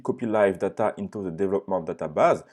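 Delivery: English read with a heavy French accent; English words in a strong French accent. Real, not acted. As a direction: say the English the way a French speaker would. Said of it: "mon accent anglais".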